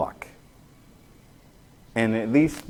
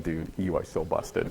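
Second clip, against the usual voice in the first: 1 hushed classmates' taunt; 8 semitones lower, 10 dB quieter than usual. Retold or imitated. Classmates whisper at caught student.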